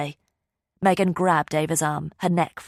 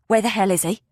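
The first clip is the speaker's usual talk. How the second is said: firm, pressing demand; 4 semitones higher, 3 dB louder than usual. A narrator's reading. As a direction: insist on an answer. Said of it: "she demanded".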